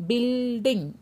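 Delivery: BUILDING said slowly with the first syllable held; sound demonstration. Shown as a demonstration. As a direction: draw out the start of BUILDING to show its sound. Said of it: "notice the sound of building". (BUILDING को खींचकर, आवाज़ दिखाते हुए)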